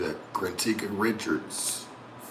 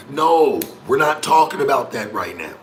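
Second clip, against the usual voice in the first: angry; 3 semitones higher, 8 dB louder than usual. Real, not acted. Scolding chat viewer on stream.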